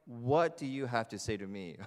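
a touch of challenge in the voice; lightly confrontational, put it to them; mildly aggressive. Acted. Woman at the well challenging Jesus, mildly aggressive. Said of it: "It's a little bit aggressive, isn't it?".

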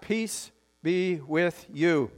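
each word spaced out at half speed; slow, drawn-out blessing. Real, not acted. Pastor modelling the greeting for the congregation, slow and deliberate.

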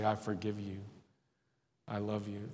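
said softly, as if struggling to get it out; quiet forgiveness. Acted. Preacher voicing words to someone who hurt you, quiet forgiveness.

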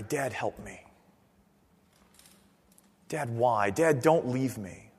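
soft, low, pleading cry to dad; quiet plea. Retold or imitated. Believer crying to God as dad, soft pleading. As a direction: plead softly like a frightened child.

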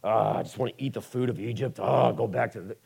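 a hint of Israelites moaning for Egypt; grumbling Israelites. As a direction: whine it like a hungry wanderer in the desert. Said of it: "they're just grumbling the whole time".

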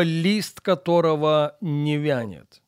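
ordinary delivery

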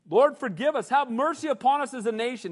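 loud imploring prayer; crying out to God. Retold or imitated. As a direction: plead aloud for the nation. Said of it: "congressmen crying out".

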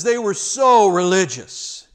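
slow, loud, drawn-out sarcasm; mock the piety slowly; sarcastic. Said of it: "And Jesus says".

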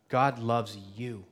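slow, gentle reassurance; reassuring. Real, not acted. Pastor assures each listener, slow and gentle.

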